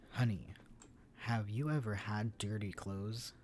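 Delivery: loud infomercial pitch to the camera; cheesy announcer voice. Acted. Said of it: "cheesiest announcer voice".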